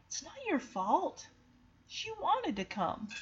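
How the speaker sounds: soft, consoling retold line; hushed and soothing; gentle reassurance. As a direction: comfort a guilty friend quietly. Acting Chance consoling Shadow.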